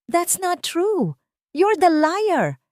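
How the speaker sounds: high, slow, shouted accusation; angry shout. Acted. Aki shouting at the lawyer in court, furious. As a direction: scream it at him, rising to your feet. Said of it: "sigaw ni Aki".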